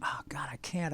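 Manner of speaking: whispered Oh, God, I can't; whispered refusal. Retold or imitated. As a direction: breathe it as a hushed whisper. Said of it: "And I said".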